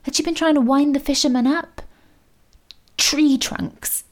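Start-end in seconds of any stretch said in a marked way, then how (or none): 3.0-4.0 "Tree trunks." said aloud, voiced, falling with sudden understanding; dawning realisation. A narrator's reading. Mo realising Nan's words were a message, dawning realisation. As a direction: land "Tree trunks." as the penny drops. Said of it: "It had been a message for him".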